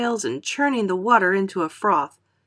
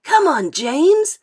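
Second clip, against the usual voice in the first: coaxing; 9 semitones higher, 7 dB louder, slower than usual. A narrator's reading. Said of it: "coaxing him".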